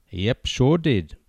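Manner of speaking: slow, offhand, barely bothered; unconcerned mutter. Acted. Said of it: "the man muttered unconcernedly".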